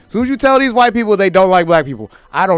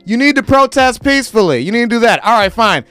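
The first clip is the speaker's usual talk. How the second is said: mock condescending calm; 6 semitones higher than usual. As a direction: talk down like calming a child. Mocking people telling protesters calm.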